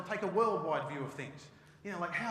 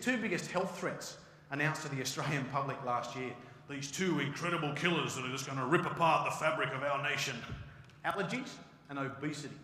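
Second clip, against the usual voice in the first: ordinary delivery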